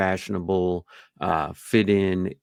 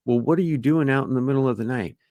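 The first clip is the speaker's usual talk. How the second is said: fast, higher questioning voice; suspicious homeowner; 5 semitones higher, much faster than usual. Retold or imitated. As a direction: quiz them quickly. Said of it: "So you might say".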